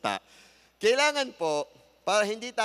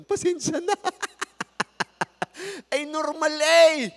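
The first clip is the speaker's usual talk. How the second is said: high, loud, laughing sorry; a husband laughing off his loud voice to his wife; laughing apology; 10 semitones higher, 7 dB louder than usual. Retold or imitated. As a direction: laugh it off as just a normal voice. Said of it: "ah sigaw na ba yun".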